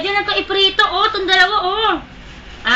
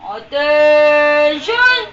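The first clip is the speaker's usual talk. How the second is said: louder, very slow drawn-out command; drill sergeant; 5 dB louder, much slower than usual. Pretend. Commanding a pet to stand.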